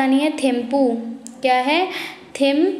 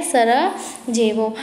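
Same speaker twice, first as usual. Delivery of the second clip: slow drilled repeat; 2 semitones lower, much slower than usual. Shown as a demonstration. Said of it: "क्या है?".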